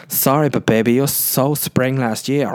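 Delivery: lightly camp German fashion judge; a hint of a camp fashion critic, drawn out slowly. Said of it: "that gay German voice".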